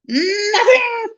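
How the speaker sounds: very high, loud, cackling shout; triumphant poltergeist. Acted. Peeves mocking Filch with a cackle. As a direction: crow with glee at the trick.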